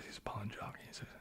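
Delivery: ordinary talk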